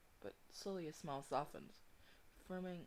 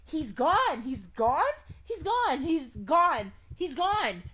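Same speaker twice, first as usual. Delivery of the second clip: loud, high panicked repetition; frantic, high-pitched shouting; panicked cry; 11 semitones higher, 17 dB louder, much slower than usual. Acted. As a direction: cry it out over and over, in full panic. Acting character's panic attack in game.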